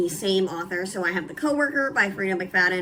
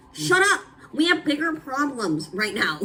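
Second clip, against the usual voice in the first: exasperated shout; 6 semitones higher than usual. Retold or imitated. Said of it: "And it's like".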